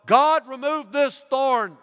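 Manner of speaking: high, loud, slow begging; loudest plea. Retold or imitated. Paul's third time begging God, loud and high and slow. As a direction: cry out at full strength, drawn out.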